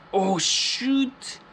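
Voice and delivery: sudden high yelp of alarm; startled cry. Real, not acted. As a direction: blurt it out, caught off guard. Sudden warning sign on screen.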